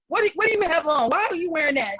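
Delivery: mother scolding her daughter's outfit; scolding mom. Retold or imitated. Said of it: "follow them on Instagram".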